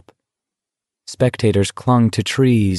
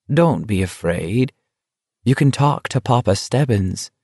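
mock soothing. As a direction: coo it with mock kindness. Stebbins mockingly soothes Garrity.

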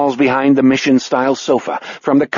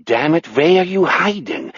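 less heated pseudo-German question; moderately raised, odd German-like voice; weird non-German accent; 4 semitones higher than usual. Acted. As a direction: repeat it with the accent melting toward German. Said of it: "accent melts into that weird non-German".

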